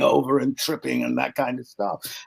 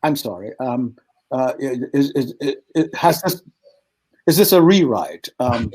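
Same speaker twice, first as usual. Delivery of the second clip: nervous stammer. Retold or imitated. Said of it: "And I'm going".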